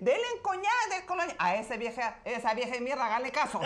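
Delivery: put-on very high, loud cranky old woman; old neighbour lady yelling from her doorway; old lady's voice. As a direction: shriek it like a bossy old lady. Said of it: "sale una viejita de la casa y dice".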